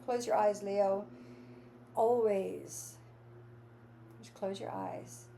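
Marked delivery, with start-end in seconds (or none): 4.2-5.2 whispered, unvoiced and soft; hushed meditation cue. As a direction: breathe it out like a secret. Guiding listener into meditation.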